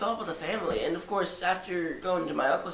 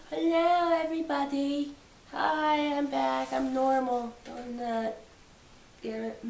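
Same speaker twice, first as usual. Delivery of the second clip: much higher, mock chirpy greeting that sags at the end; squeaky cleared-nose voice; 10 semitones higher, slower than usual. Vlogger jokingly greets viewers after blowing nose, squeaky. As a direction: squeak it out like the nose just cleared, then deflate.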